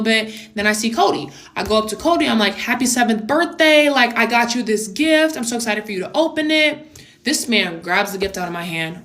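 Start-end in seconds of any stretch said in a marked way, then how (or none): 2.6-6.9 mildly gushing, higher-pitched well-wishing; lightly acted excitement; excited birthday greeting. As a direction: retell it like greeting a kid with a present. Greeting birthday kid with gift.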